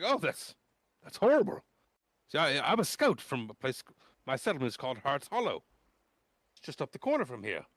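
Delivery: put-on very high, horrified then cheery boy; eager boy welcoming friends; high gushing boy. GM plays Klistron again.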